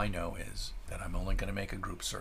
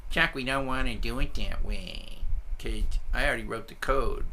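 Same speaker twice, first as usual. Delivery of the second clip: lightly voiced colleague; 2 semitones higher, 5 dB louder than usual. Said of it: "they'd go like".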